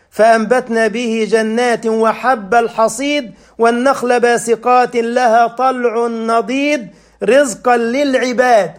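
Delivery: melodic tajweed chant; chanted Quran verse in a sermon; Quran recitation. Acted. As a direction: recite the verse with measured cantillation. Recites Surah Qaf.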